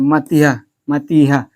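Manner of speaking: मतिहा with the ending as हा; मतिहा, the wrong ending; wrong visarga reading. Shown as a demonstration. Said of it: "जैसे मतिहा नहीं होगा".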